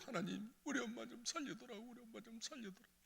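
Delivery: high, soft crying plea; child's tearful plea. Retold or imitated. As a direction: beg God like a weeping child. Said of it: "애들도". (아이들이 하나님께 울며 비는 목소리)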